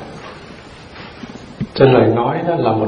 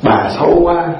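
doll voice; 4 semitones higher, slower than usual. Retold or imitated. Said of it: "Còn búp bê nói".

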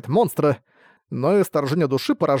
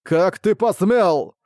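slow, booming monstrous voice; monster roar; 4 semitones higher, 3 dB louder, much slower than usual. Acted. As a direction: roar it like a giant beast. Boss continues roaring.

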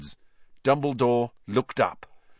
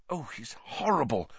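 whispered; 4 semitones higher, 6 dB quieter than usual. A narrator's reading. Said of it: "whispered Hermione".

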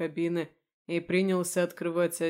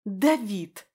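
mocking copy; 4 semitones higher, 7 dB louder than usual. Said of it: "скопировала мою интонацию".

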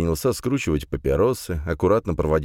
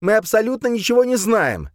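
high, loud heated cry; angry shout; 5 dB louder than usual. Acted. Салиман кричит на спутников, распаляясь всё сильнее. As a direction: shout it out, growing more heated. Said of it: "кричал Салиман, всё больше распаляясь".

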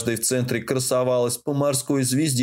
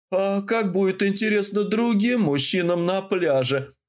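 slow theatrical villain menace; 7 semitones higher than usual. A narrator's reading. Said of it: "Зловеще протянула я".

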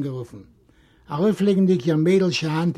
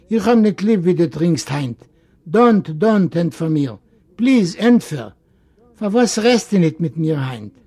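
lightly voiced girl, louder, insistent pleading; pleading young Masche; 5 dB louder than usual. Masche begs her drinking uncle to answer, insistent. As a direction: beg him, upset at his silence.

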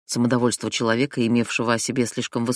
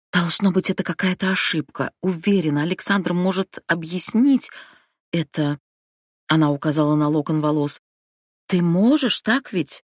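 a hint of a pleading sister; lightly voiced young woman; 4 semitones higher than usual. Abigail pleading with brother.

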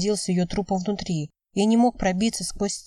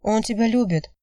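plain reading voice

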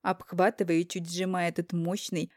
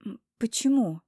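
surprised; 3 semitones higher than usual. Acted. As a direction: ask in genuine surprise. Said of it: "Удивляюсь".

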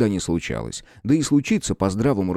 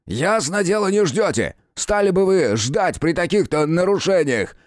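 sarcastic; 8 semitones higher than usual. Acted. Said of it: "съязвили из-за двери".

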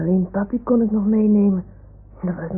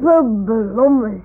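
customs officer; 4 dB louder, much slower than usual. Pretend. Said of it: "zegt de douane dan".

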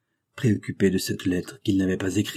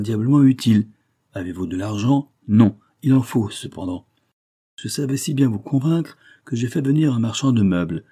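brisk, assured adviser; 3 semitones higher, 5 dB louder than usual. Acted. Adviser persuading his friend to sell the furniture, assured. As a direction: press on confidently with the plan.

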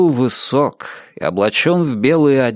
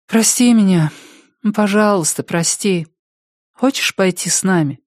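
put-on higher, pleading young girl; Door's voice; 8 semitones higher than usual. Door pleads with Richard.

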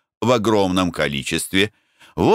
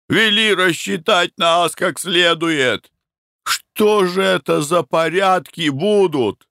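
crowd shouting; 9 semitones higher, slower than usual. A narrator's reading. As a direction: shout your demand at the master. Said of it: "Громче прежнего кричали рабочие". (рабочие громко кричат хозяину, требуя расчёта)

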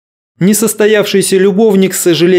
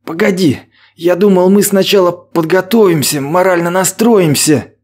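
mumbling nervously; 4 semitones higher than usual. Acted. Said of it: "мямлил Вадим".

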